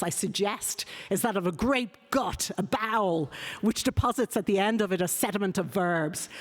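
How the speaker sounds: lightly declaimed read-aloud of an essay; emphatic quote reading. Acted. Reads out a long quotation.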